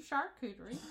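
"Charcuterie." with every syllable sounded out, shar-koo-ter-ee; over enunciating. Shown as a demonstration. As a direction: spell out each letter of "Charcuterie.". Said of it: "I like to enunciate every single letter".

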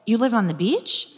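"You live on the beach?" with a rising, amazed tune on "live"; surprised question. Retold or imitated. She asks the new man in mock disbelief. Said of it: "I said".

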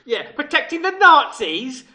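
sarcastic teasing. Real, not acted. Mocking his white knight claim.

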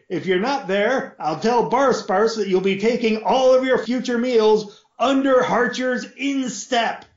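high mocking lord's voice; lord teasing son. Lord mocking his son before leaving, high voice. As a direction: tease the boy from across the room.

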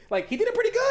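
high laughing squeal. Real, not acted. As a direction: break into laughter on it. Laughs at his own point.

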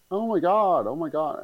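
mock frantic high cry; a mother reacting to TV news, imitated high and panicked; retold panicked cry. Mother downstairs seeing the attack, mock panicked cry.

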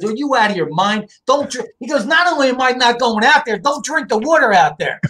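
high-pitched, mildly indignant dad quote; indignant retort. Retold or imitated. Dad refusing to move out to San Diego, indignant. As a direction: imitate a dad scoffing at the idea.

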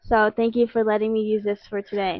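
stiff robotic monotone; flat robot-like read. Real, not acted. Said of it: "I sound like a robot".

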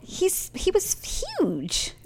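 whispered aside. Real, not acted. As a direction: hush it like a secret. Aside about his size.

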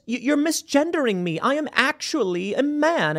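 high-pitched mock offended customer; Pat. Imaginary customer correcting a server who said she, high squeaky indignation. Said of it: "and you get this".

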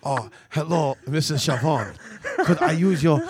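put-on Japanese accent. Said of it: "talking in an accent".

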